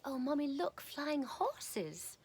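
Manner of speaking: put-on high, excited small child pointing; little girl voice. A little girl pointing out the flying horse to her mom, high childlike excitement. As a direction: play yourself as a tiny girl at the gas station. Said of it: "I would say".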